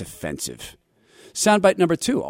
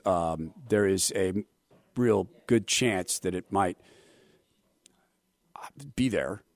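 evasive rambling excuse; 3 semitones lower than usual. Pretend. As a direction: lower and slowing, fading to a whisper. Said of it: "Try it at a traffic stop".

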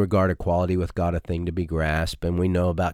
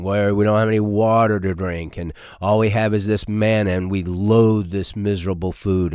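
grumbling Israelites; 3 dB louder than usual. Retold or imitated. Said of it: "always grumbling about something".

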